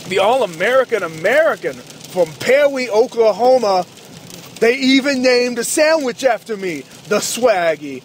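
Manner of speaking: lightly voiced wrestler boast, pitch a bit up; a touch of a cocky wrestling heel bragging; hint of Jack Swagger. Doing Jack Swagger's intro.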